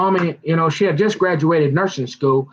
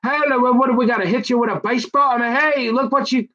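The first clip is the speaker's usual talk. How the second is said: much higher pleading friends; exasperated boys; 8 semitones higher than usual. Retold or imitated. Samson's boys plead with him, much higher. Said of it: "he got all his boys around there like".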